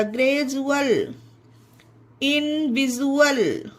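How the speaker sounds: ग्रेजुअल and इनविजुअल with "ju" before the ending; ज sound in ग्रेजुअल and इनविजुअल. Shown as a demonstration. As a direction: model ग्रेजुअल, इनविजुअल clearly, D as J. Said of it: "जा हो जाएगा".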